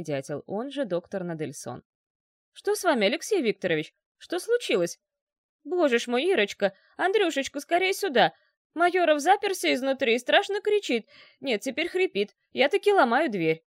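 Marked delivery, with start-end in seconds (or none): 2.5-13.6 higher, louder, panicked pleading through a door; fussing and fretting as he pounds on the door; alarmed doctor calling. Acted. Doctor outside the locked door calls for help, panicked and loud.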